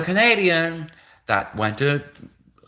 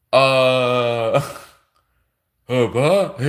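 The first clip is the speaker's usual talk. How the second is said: stammering mock-shocked put-on voice; lightly voiced baffled interviewer; 3 dB louder, much slower than usual. Employers stunned by the Canadian applicant, mock-baffled stammer. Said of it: "the Chinese people are like".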